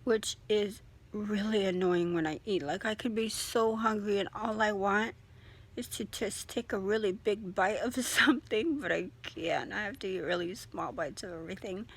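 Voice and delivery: speaking through a swollen, stiff jaw; barely opening the mouth, sore jaw. Real, not acted. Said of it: "as you can see and hear, I can speak a little bit better".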